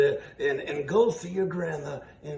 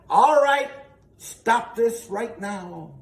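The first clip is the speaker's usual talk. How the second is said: stern woodsman; 3 semitones higher, 6 dB louder, slower than usual. Acted. Woodsman confronts wolf.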